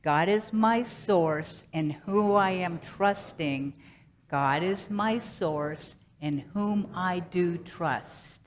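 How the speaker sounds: slow, measured mantra for joining in; leading group recitation. Shown as a demonstration. Speaker leading listeners in saying the mantra together, slow measured recitation. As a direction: lead them slowly, phrase by phrase. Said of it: "say that with me".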